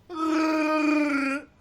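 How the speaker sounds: loud, high imitated roar; imitated battle noise. Player demonstrates the noises of the fight, loud imitated noise. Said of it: "a bunch of these noises".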